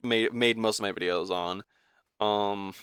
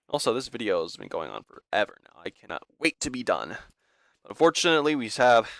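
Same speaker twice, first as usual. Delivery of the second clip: short of breath, gasping between phrases; talking while winded; running out of air. Real, not acted. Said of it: "I'm running out of breath here".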